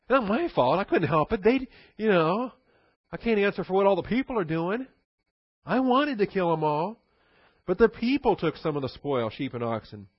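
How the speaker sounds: high, loud whiny protest; whining blame-shift. Retold or imitated. Saul blaming the people to Samuel, high whining protest. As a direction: whine that it's all the people's fault. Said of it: "here comes the second excuse".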